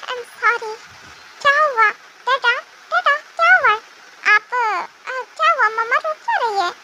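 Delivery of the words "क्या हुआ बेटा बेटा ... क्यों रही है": alarmed asking. Acted. Child finds mother crying.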